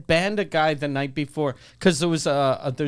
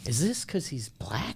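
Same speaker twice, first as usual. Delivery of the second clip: low, much softer, loaded question; hushed accusation; 4 semitones lower, 9 dB quieter than usual. Retold or imitated. Comic confronting bouncers at the exit, hushed and suspicious. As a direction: drop the voice for a mock-grave accusation.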